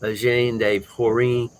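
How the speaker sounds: Eugène de Porin said as the French might, tentatively; attempted French pronunciation. Shown as a demonstration. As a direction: have a rough go at saying Eugène de Porin in French. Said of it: "how would the French pronounce that".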